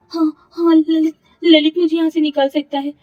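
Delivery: sudden hope. A narrator's reading. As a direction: grab at the idea. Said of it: "सोचते हुए कहा".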